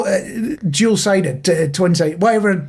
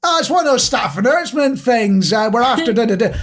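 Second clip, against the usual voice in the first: lightly imitated tannoy call, rising higher; mock staff announcement; 3 semitones higher than usual. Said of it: "just to go, "Bing bong".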